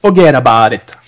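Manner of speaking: rough attempt at Brooklyn speech; attempted Brooklyn accent. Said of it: "can't do that Brooklyn accent".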